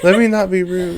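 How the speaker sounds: laughing. Real, not acted.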